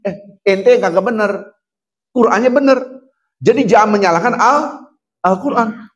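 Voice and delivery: high and loud, urgent sermon; fiery preaching. Acted. Preacher scolding the congregation to return to zikir, fiery preaching. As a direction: preach at full force, pressing the crowd. Rebukes the doubter forcefully.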